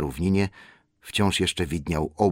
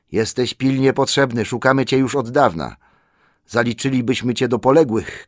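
loud, raised-pitch man's voice; urgent messenger; 6 semitones higher, 6 dB louder than usual. Acted. Messenger tells the lost hobbit he is needed, urgent. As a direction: speak up urgently, high and loud. Man who found Bilbo.

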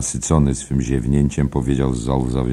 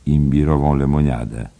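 polite; 4 dB louder than usual. Acted. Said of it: "dodał uprzejmie muzyk".

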